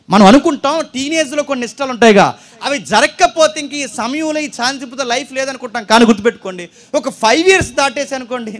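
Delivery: a rising, forceful pulpit appeal; forceful preaching. Acted. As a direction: drive the point home to the crowd.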